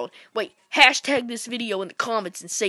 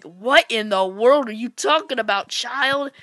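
grown-up scolding; 2 semitones higher, 5 dB louder than usual. Retold or imitated. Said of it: "that guy who actually did play Mario was like".

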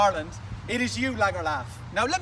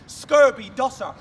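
slow, louder jeer of scorn; shouted insult; 6 dB louder, slower than usual. Real, not acted. To Ginty in a callout video, a slow loud jeer.

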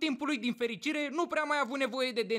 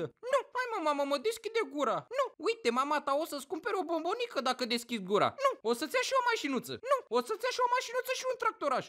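high, pleading parent imitation; coaxing parent; 3 semitones higher than usual. Parents bribing a child in the dentist's chair, mock pleading. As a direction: cajole a stubborn child in a raised voice.

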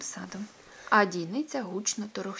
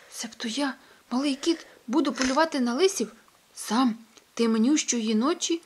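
little cat Findus; 5 semitones higher, 5 dB louder than usual. Acted. Findus frightened questions.

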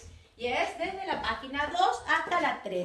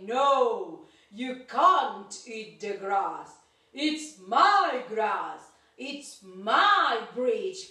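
lightly voiced low, slow troll; a hint of a grumpy troll; grumpy monster; 5 semitones lower, slower than usual. Monster guards its bridge.

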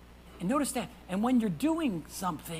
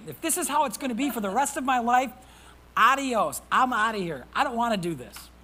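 louder, fed-up cry; exasperated outburst; 3 semitones higher, 5 dB louder than usual. Retold or imitated. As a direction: throw up your hands and shout it. Voicing Moses' despair.

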